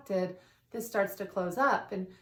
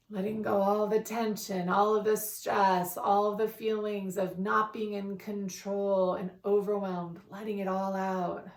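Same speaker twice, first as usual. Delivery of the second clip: calm, measured affirmations with long pauses; guided meditation. Real, not acted. Continues the guided breathing meditation.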